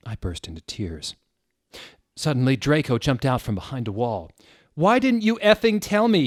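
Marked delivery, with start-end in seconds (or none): 4.7-6.3 high, loud hammed-up yell; shouted. A narrator's reading. Draco yelling at Ebony, a high loud hammed-up shout. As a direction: belt it out, much higher and louder. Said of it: "he shouted".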